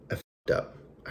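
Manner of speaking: breathy guilty whisper. Real, not acted. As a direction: whisper it like a confession. Admitting a mistake to camera.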